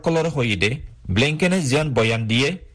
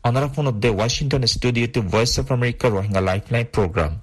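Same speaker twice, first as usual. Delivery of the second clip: am radio; 4 semitones lower than usual. Real, not acted. Short wave thirty one metre বেণ্ড.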